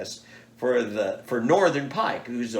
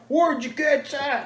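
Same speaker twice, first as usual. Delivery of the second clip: pitched way up and drawn out slowly; amazed question; 5 dB louder, slower than usual. Retold or imitated. Fish weighers ask where it came from, high amazed disbelief. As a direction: ask it like you can't believe your eyes.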